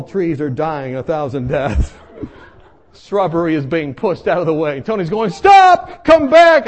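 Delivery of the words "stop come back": high, urgent mock shout; calling out. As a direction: yell after someone running away. Tony calls after fleeing teller.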